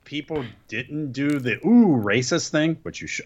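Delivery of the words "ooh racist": louder, mock shocked "ooh, racist"; mock scandalized gasp. Shown as a demonstration. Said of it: "always should do the "ooh, racist" thing".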